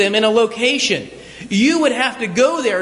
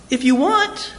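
casual offer; 3 semitones higher than usual. Acted. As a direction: offer with a rising lilt on "want". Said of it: "and I said to you".

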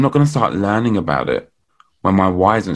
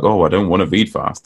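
cynical voice; 2 semitones lower than usual. Retold or imitated. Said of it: "that's my, uh, cynical voice".

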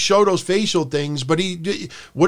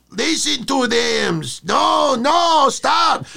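mock pleading; 9 semitones higher, much slower than usual. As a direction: ham up a scared man begging to stop. Acting scared wrestler's pleading.

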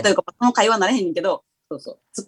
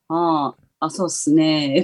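slow, easygoing mock of a friend's talk; imitating Kohei's drawl; 2 semitones lower, much slower than usual. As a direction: lazily stretch it out like the guy she's teasing. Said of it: "っていうの".

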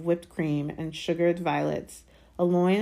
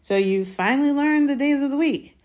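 high, loud sarcastic marvelling; mock him as if talking down; 10 semitones higher, 7 dB louder than usual. A narrator's reading. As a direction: sarcasm pitched way up. Harry mocks his slow cousin.

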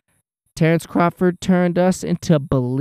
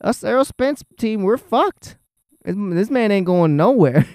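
mock despair; 2 semitones higher than usual. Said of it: "I was like".

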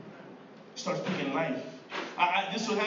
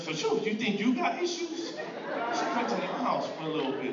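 laughing mock brag; 4 semitones higher than usual. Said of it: "And then you're like".

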